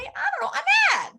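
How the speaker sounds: high, loud burst of mock fury; mock anger. Teacher acting out someone who lost money, mock angry. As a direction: blurt it out like a frustrated investor.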